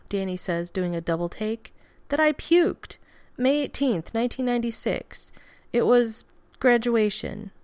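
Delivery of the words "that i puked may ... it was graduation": much higher, rushed then slowing to a stop; flustered blurt. A narrator's reading. Danny correcting Steve about puking, higher flustered blurt. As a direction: blurt the embarrassing fact out.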